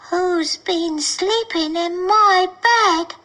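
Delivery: put-on slow, small baby bear voice; a tiny bear asking; Baby Bear with his small wee voice. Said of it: "said in his small wee voice".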